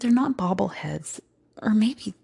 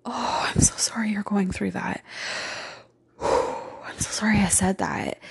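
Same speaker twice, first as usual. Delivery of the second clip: tender self-talk. Retold or imitated. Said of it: "And I'd be like".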